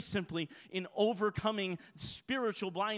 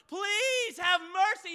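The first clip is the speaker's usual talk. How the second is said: play-acted, high, desperate, all-out pleading cry; 11 semitones higher, 5 dB louder than usual. Retelling a man's plea in a story, acting out a desperate cry. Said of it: "He's just crying out as much as he".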